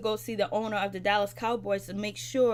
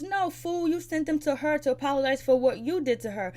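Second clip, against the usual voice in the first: mock scolding; 4 semitones higher than usual. T scolding Ricky over flowers.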